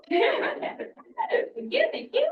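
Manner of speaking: high laughing thanks. Real, not acted. Crowd cheers her remark.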